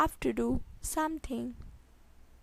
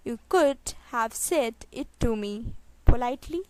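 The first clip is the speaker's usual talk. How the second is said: spaced out, pause before the last word; 4 dB louder than usual. Shown as a demonstration. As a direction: set the final word apart. Teacher repeats sentence slowly. (धीरे, आख़िरी शब्द से पहले रुककर)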